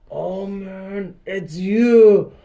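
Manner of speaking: high, loud shocked exclamation; sudden startled recognition; oh no it's you; surprised recognition. Retold or imitated. Recognizing the same guy.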